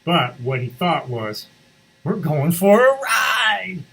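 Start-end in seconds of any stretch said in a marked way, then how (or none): 2.0-3.8 high, loud, slow happy dog; dog thinking about the ride, eager; excited dog voice. Acted. Dog's thought voiced.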